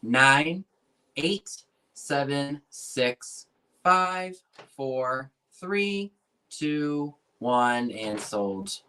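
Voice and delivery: slow auction countdown, each number spaced out; calling the last bids, counting down to sold; auctioneer countdown. Acted. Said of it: "You count it down".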